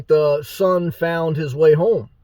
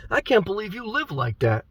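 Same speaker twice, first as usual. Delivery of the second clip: higher-lilting, softer mock scolding; mock disapproval; 3 semitones higher, 6 dB quieter than usual. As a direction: imitate a scandalized critic under your voice. Mimics a scandalized critic of him.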